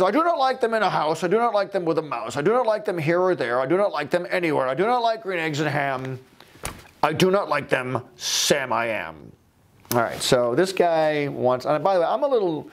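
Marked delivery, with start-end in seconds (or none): 0.0-9.3 a hint of a grouch refusing; crotchety old man. The old man turns Sam down, mildly grumpy. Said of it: "the crotchety older guy".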